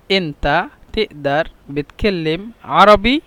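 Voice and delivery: slow, careful model of the question; slow repeat. Shown as a demonstration. Teacher modelling the Egyptian question slowly for learners. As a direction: spell the question out syllable by syllable. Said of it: "repeated for learners".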